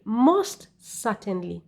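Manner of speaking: Most certainly said slowly, leaning on certainly; slow it down and press on certainly; stress with intonation. Shown as a demonstration. Teacher modelling stress to students: slow, pressed Most certainly. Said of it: "So you stress that using intonation".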